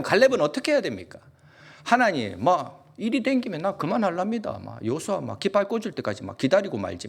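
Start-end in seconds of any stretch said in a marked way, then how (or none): 1.8-7.1 sulky Caleb. Retold or imitated. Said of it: "막 이렇게 했지 않았을까요".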